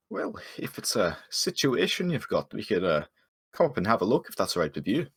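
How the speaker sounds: lightly voiced helpful adventurer; obliging adventurer. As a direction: offer help with a questioning lilt. Adventurer offers to investigate the haunting.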